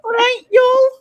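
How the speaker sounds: high, loud hammed-up Southern "y'all"; mock Southern greeting. Shown as a demonstration. Friend tries a Southern accent, lands near Scouse, hammed-up Southern. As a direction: belt out a cartoon Southern "All right, y'all". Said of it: "that sounded a bit scouse".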